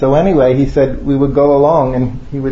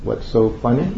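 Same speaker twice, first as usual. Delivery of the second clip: imitating a guru's deep-voiced question. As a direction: ask it lightly in a teacher's deep voice. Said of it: "in that deep voice".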